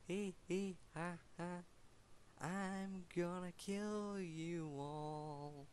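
high giggle into slow taunt; scary villain voice. Acted. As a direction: cackle then promise to kill them all, slowly. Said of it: "I do the scary voice".

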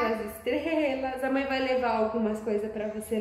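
slow, gentle coaxing. Real, not acted. Coaxing toddler to wave bye.

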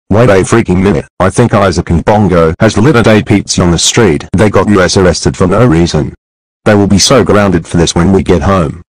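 loud furious yelling; angry shouting. Acted. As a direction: shout it out in rage. Mother furious at the kids.

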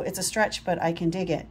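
plain reading voice

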